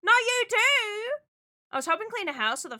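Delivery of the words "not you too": high, loud mock dismay; playfully aghast at another absence; loud stretched cry; excited greeting. Greets another returning viewer.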